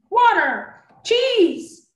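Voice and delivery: screaming. A narrator's reading. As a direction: bound magician screams the spell word in rage. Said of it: "Wayne screamed".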